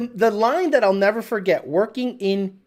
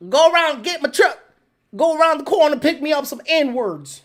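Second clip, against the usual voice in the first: boss's order; 6 semitones higher than usual. Retold or imitated. Boss repeats his order to Alex, insistent. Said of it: "I'll say what he said".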